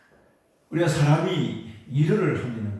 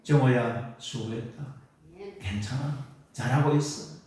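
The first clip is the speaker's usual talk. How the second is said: tender self-comfort. Shown as a demonstration. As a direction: gently console yourself. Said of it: "내가 나를 위로해야 되겠다". (자기 이름을 부르며 부드럽게 위로하듯)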